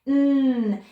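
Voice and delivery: long humming "Mm" with the tongue on the roof of the mouth; held N sound. Shown as a demonstration. Teacher showing children the N sound, held "Mm" hum. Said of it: "when I'm making that N sound".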